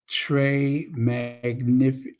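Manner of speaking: halting try at French très magnifique; stumbling into French magnifique; foreign accent in French. Real, not acted. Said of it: "I love when I try to speak French".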